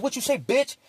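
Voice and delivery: high, sharp street challenge; challenging snarl. Retold or imitated. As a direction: spit it out like picking a fight. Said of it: "Like that".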